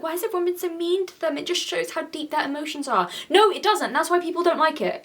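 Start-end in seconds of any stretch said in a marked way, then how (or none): 0.0-3.1 mocking commenter. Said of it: "some people in the comments are like".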